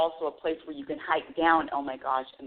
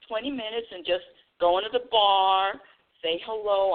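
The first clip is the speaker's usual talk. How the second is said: higher, bubbly voice; excited planning; 5 semitones higher than usual. Retold or imitated. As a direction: gush about a spontaneous trip. Retelling her excited plan on phone.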